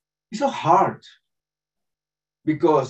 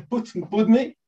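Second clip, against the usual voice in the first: ordinary talk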